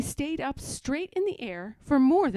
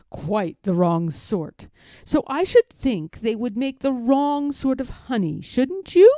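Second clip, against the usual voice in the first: Pooh; 2 semitones higher, 8 dB louder than usual. A narrator's reading. Pooh voiced in story.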